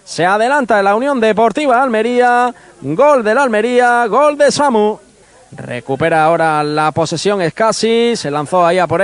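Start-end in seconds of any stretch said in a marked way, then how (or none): 0.1-5.0 goal scream. Real, not acted. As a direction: stretch out the goal cry at full voice. Long sustained goal scream.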